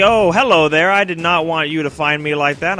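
lightly voiced skittish enemy; enemy's voice. Enemy explaining itself to the player, lightly acted voice. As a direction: play the enemy, pitch climbing towards the end.

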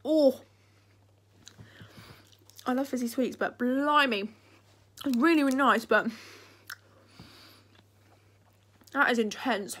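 loud, excited, sweet still fizzing; fizzy soda tingle. Real, not acted. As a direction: exclaim loudly as the fizz hits.

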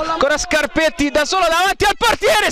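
high, fast build-up call; excited call. Real, not acted. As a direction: rush it as he bears down on goal. One-on-one chance.

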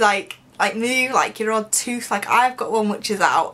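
lip held by finger; talking around finger; finger on teeth. Real, not acted. Seen 0: Finger touches front teeth, lips parted, through 3.3, gone by 3.6.

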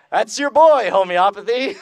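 laughing. Real, not acted. Mocking homeopathy, laughing.

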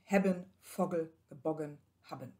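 Hebben, Vogel, Haben with crisp short vowels; short vowel examples. Shown as a demonstration. Lecturer models short vowels for students. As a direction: clip every vowel short. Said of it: "wird kurz gesprochen".

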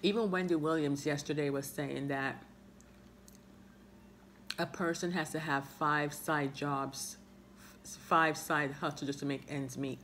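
biting chip between words; talking while chewing chip. Real, not acted. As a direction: mouth partly full. Seen 0: Chip held at lips, bitten at 6.1, 7.2, 13.8 while talking.

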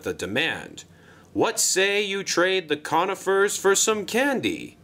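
lightly voiced railway controller making an offer; a touch of the persuasive boss; Sir Topham Hatt. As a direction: lively boss pitch with big rises and falls.

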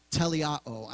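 teleao said slowly as "tel-ee-AH-oh" with a falling end; Greek word pronounced. Shown as a demonstration. Pastor shows the congregation how to say teleao, careful and slow. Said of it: "it's pronounced teleao".

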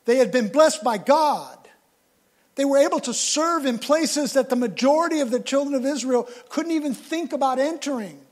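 loud, high preaching build; preacher building to a shout on "dead"; full force preaching. Acted. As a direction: drive it home to the congregation.

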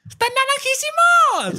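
slow squealing delight at the orange; amazed. Real, not acted. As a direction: stretch it out, astonished by the colour. Marvelling at orange mask.

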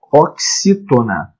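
"oxítona" drawn out slowly; slow term introduction. Shown as a demonstration. Teacher introduces term, then repeats it. ("oxítona" devagar, bem articulado)

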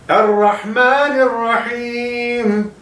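Errahmanirrahim with a thick, dark ra, drawn out; heavy ra. Shown as a demonstration. Teacher shows the heavy ra to students, slow. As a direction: darken the ra in Errahmanirrahim, slowly. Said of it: "Ra kalın harftir".

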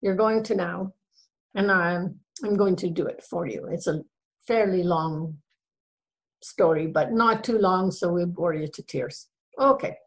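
chatty Irish brogue. Pretend. Storyteller greeting listeners on the Day of the Irish, Irish brogue. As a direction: speak in a put-on Irish brogue. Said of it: "as long as I'm doing the brogue".

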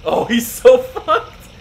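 slow laugh through the words; laughing gleefully. Real, not acted. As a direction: cackle at the enemy. Gleeful at enemy's fate.

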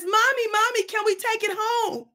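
put-on high, pleading little boy voice; little boy begging mother to keep it; child's plea. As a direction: beg like a small kid. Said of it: "And he says".

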